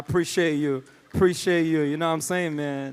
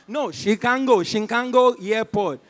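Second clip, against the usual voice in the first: put-on American accent; 4 dB louder than usual. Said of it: "my American accent".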